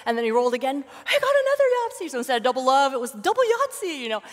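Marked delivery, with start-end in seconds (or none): 0.8-2.1 high, loud excited shout; excited cheer. Retold or imitated. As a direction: cheer the second win. Cheering second Yahtzee.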